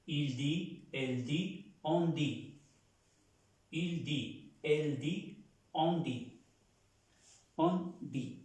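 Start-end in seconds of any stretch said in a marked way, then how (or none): 0.0-2.6 "Il dit, elle dit, on dit" all ending in a bare "di", t silent; teacher shows "dit" is said the same for all three; same pronunciation. Shown as a demonstration. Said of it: "Y se pronuncia igual". 3.7-6.4 "Il dit, elle dit, on dit" all ending in a bare "di", t silent; teacher shows "dit" is said the same for all three; same pronunciation. Shown as a demonstration. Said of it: "Y se pronuncia igual".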